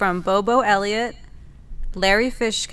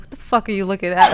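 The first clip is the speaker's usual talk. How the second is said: tough prison guy; 6 dB louder, faster than usual. Retold or imitated. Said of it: "what he would be like in prison".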